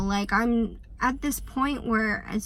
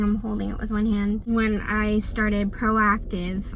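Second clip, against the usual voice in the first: shaking. Real, not acted. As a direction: speak while trembling. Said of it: "sorry, I'm shaking".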